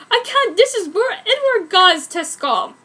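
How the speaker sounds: high, loud, laughing through it; hammed-up loud protest, laughing. Narrator refusing the transfer, loud laughing mock protest. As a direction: keep shrieking while cracking up.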